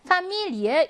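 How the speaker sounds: Familie with MI stressed; second-syllable stress. Shown as a demonstration. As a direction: model the word Familie, leaning on its second syllable. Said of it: "이 음절 강세어이고요".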